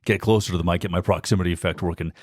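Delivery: close-mic radio delivery from the diaphragm. Shown as a demonstration. Host showing off his proximity effect, radio voice. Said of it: "use the radio voice, I can just break into it".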